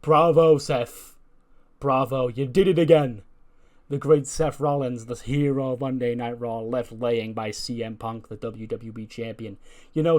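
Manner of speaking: loud mocking praise, sneering at Seth; sarcastic. Chad Gable mocking Seth backstage, sarcastic loud praise. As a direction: pour on the fake applause, sneering. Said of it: "some sarcastic clapping".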